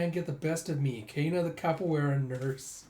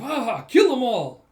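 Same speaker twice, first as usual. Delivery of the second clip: much higher, loud laughing war cry; bloodthirsty cackling yell; maniacal shout; 9 semitones higher, 11 dB louder than usual. Acted. Raider blowing up the spire, laughing and shouting. Attacker fires rocket launcher.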